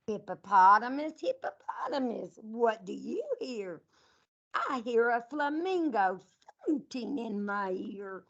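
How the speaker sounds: sing-song picture book read to a class; reading to children. Acted. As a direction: read it out like storytime for little kids. Teacher reads animal picture book.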